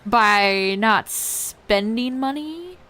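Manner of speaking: drawn out, slow, amused; slow mock question. Real, not acted. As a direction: stretch each word slowly. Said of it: "echoes own line slower".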